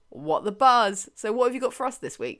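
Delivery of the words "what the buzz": slow catchphrase. Shown as a demonstration. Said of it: "make me say".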